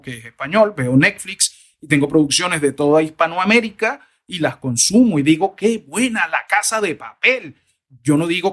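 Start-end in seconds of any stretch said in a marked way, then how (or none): 5.5-7.5 slow, higher-pitched appreciative exclamation; admiring praise. Acted. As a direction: savour the praise, stretching it out. Acting out a viewer's praise. (elogio entusiasta y pausado)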